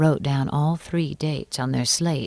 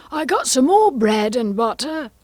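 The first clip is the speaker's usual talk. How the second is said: Hatter; 8 semitones higher, 6 dB louder than usual. Acted. Hatter continues his testimony.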